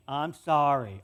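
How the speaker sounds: mock forced sincerity; sulky kid's second sorry. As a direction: put on a sincere tone you don't mean. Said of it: "Say it like you mean it".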